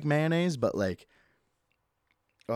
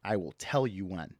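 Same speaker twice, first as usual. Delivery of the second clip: dramatic stop; 3 semitones lower than usual. Pretend. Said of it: "dramatically, saying".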